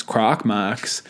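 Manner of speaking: light mock Alberta accent, vowels pulled open. How the Alberta locals nickname the store, lightly mocked Alberta accent. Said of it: "imagine the worst Alberta accent".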